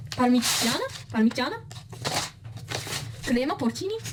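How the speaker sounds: lightly put-on Italian accent; hammed-up Italian pronunciation of food names; fake Italian accent. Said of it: "listen to my fake Italian accent".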